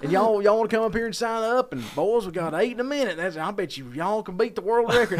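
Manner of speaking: a small-town MC calling folks up to a contest, in a put-on twang; hick MC voice. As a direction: ham up the hokey MC rounding up contestants. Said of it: "makes my skin crawl talking like that".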